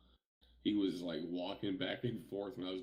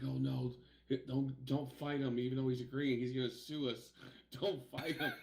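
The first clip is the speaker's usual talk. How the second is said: imitating a frantic friend, a bit higher; panicked pleading; 6 semitones higher, 4 dB louder than usual. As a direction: mimic him begging not to fight. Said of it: "He's like".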